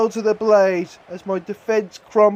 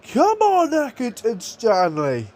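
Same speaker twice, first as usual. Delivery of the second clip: excited cheer; 5 semitones higher than usual. Real, not acted. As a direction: cheer the club on with a sudden high burst. Cheering his team into the final.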